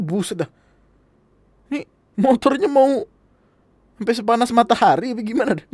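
high, loud exasperated grumble about the neighbour; annoyed complaint. Retold or imitated. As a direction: whine it out, fed up and half crying. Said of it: "kata gue".

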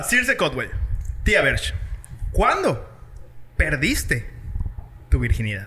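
low, slow, soft seductive voice; slow bedroom voice with pauses. Acted. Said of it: "Voy a poner mi voz seductora".

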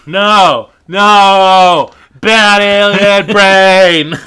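loud, slow dopey protest; dumb Jake voice. Acted. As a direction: play him as a big dumb kid. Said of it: "That's how he sounds".

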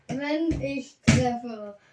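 giggling through the words; slow, laughing as you speak. Real, not acted. Repeats it while laughing.

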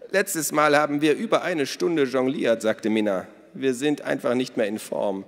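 loud, high, hearty woman's voice; boisterous Minna. Acted. Minna tells the children about their father, boisterous. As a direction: play her big and bold.

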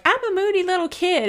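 put-on moody inner child. Mother voicing her moody inner child, petulant and childish. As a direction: play the sulky child inside you. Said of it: "my inner child is still very moody".

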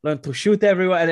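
mock German camp instructor; German accent, imitated. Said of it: "He's like".

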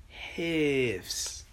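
"hifs" stretched out long and slow; drawn-out hifs. Shown as a demonstration. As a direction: draw out the sound in "hifs". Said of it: "You gotta draw out the ifs".

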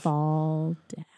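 whispered, drifting down; airy whisper for effect; hushed. Retold or imitated. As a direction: whisper it like a falling feather. Miming a feather drifting down.

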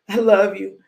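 I love you called out loud, punching love. Acted. Preacher calling I love you loud to viewers. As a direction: shout it warmly to the crowd.

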